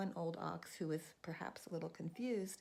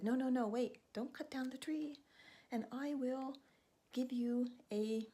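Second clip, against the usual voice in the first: panicked bird; 7 semitones higher than usual. Acted. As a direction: beg fast before the axe falls. Bird panics over tree.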